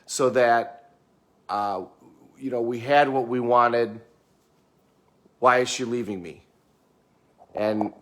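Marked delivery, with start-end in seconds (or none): 0.1-6.4 lightly voiced aggrieved husband listing his virtues; defensive husband. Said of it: "that's how they would say it".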